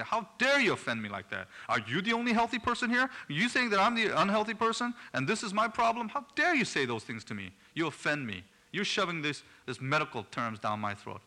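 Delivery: high, loud indignant outrage, mocking the offended patient; indignant outburst. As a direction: play the outraged patient who feels insulted. Patient offended by doctor's diagnosis.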